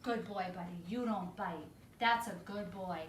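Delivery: soft praise. Shown as a demonstration. Trainer reconciling with the dog, gentle and soft. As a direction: soothe the dog after correcting. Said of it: "go into the reconciliation".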